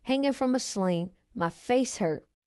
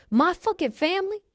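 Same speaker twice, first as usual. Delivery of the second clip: raised pitch, a hint of a yell; mock shout of rage; lightly voiced shout; 8 semitones higher than usual. A narrator's reading. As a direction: throw it out as if at the top of the lungs, but held back. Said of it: "At the top of his lungs".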